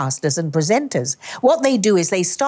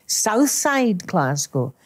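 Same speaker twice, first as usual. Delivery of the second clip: slow Southside Glasgow with a slight whine; whiny Glasgow accent; much slower than usual. Shown as a demonstration. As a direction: draw out the Glasgow vowels, whining a little. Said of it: "a bit of a whine in it".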